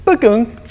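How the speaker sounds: imitated high electronic bukunk; mock GPS beep; GPS chime noise. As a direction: make the phone's alert sound with your mouth. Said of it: "the G P S goes".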